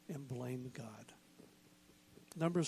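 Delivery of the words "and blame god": sudden whisper, low and slow; hushed. Acted. Pastor to congregation, whispering the last words. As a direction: let it fall to a breathless whisper.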